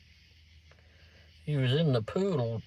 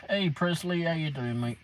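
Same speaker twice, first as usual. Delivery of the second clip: bright, higher hello to a viewer; cheery greeting; 4 semitones higher than usual. Real, not acted. Streamer greets a viewer named in chat, cheery. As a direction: call out a friendly hi.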